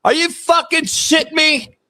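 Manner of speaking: are you kidding me energy; incredulous rant. Real, not acted. Ranting at co-host.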